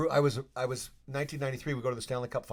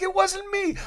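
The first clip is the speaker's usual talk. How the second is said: higher, louder fake protest; a lightly voiced denial; mock innocent denial; 10 dB louder than usual. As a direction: play it innocent, loudly. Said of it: "I'm like".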